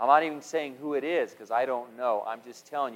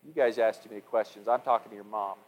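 soft apology; 3 semitones lower than usual. Retold or imitated. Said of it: "look at her and say".

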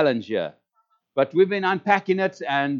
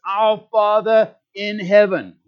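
intimate prayer; 4 semitones higher, 5 dB louder, slower than usual. Shown as a demonstration. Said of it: "No, it's".

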